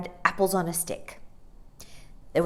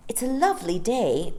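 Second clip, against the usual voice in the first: polite; 6 semitones higher, 3 dB louder than usual. Acted. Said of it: "began Jane politely".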